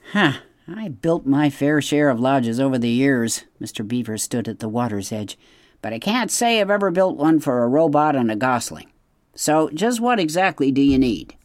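lightly voiced grumpy beaver; a hint of a bossy old beaver; gruff beaver.

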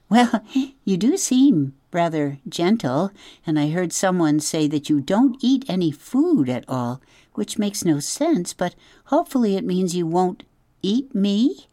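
relieved but still wary; nervous opossum. Acted. Opossum chattering nervously to the robot.

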